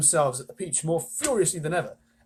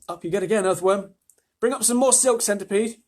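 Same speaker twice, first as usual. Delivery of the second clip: raised, high calling voice; shouted orders; 6 semitones higher, 5 dB louder than usual. A narrator's reading. James directing his insect helpers, shouted orders. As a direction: call out instructions to the crew. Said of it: "he shouted".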